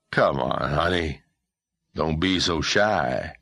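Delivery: slow, leering coax; drawn-out sleazy sweet talk. Acted. Drunk man grabbing her arm.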